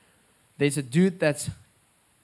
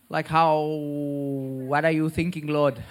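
astonished; 2 semitones higher, 5 dB louder, much slower than usual. Retold or imitated. Astonished question to God, acted.

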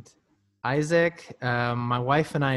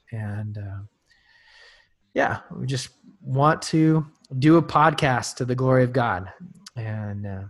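prayer; 2 semitones lower than usual. Real, not acted. Opening prayer.

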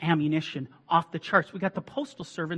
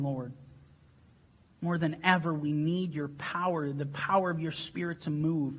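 earnest prayer. Acted. Leads prayer after sermon.

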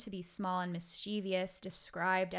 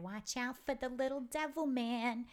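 grandmother's warning; 5 semitones higher than usual. Retold or imitated. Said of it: "my grandmother would be like".

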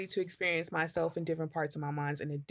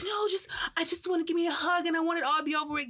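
much higher, fast pleading voice; imitating girlfriend; 10 semitones higher, faster than usual. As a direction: rush her plea for a hug. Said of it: "she's like".

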